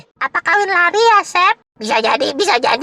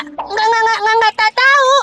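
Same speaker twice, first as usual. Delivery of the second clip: flustered, stuttering denial; nervous stammering; 4 semitones higher than usual. Acted. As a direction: stumble over each word while covering up. Nervously covering for Mama's whereabouts.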